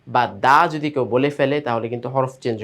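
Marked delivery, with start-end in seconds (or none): 0.4-0.6 দা thin, tongue tip at the palate; thin, light sound. Shown as a demonstration. Teacher showing pupils the mistaken letter, thin sound. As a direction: make দা a light d with open a. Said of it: "দাল সবসময় একটু পাতলা".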